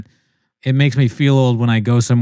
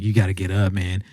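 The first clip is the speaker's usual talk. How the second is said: mock motivational coach; 2 semitones lower than usual. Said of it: "Grindset people that are like".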